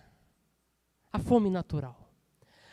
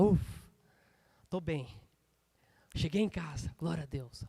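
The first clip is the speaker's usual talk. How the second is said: soft, lower, settling into relief; relieved sigh; 4 semitones lower, 4 dB quieter than usual. Acted. Someone back in their safe place, quietly relieved. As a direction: let the breath out and relax into quiet words.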